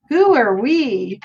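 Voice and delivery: slow, drawn-out retold question; imitating a slow, baffled query; puzzled question. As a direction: stretch out each word in mock bafflement. Retold quote of puzzled man.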